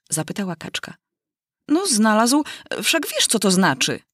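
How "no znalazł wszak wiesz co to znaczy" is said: mildly irritated, impatient; irritated mouse. Acted. The mouse answers the duck's question, mildly annoyed. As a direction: snap back at the duck, only mildly. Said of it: "odparła mysz już gniewnie".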